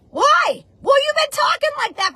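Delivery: loud, high scolding shout. Real, not acted. Telling the audience off for twenty years of poor talk, loud and high. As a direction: shout it at them, half preaching and half telling them off.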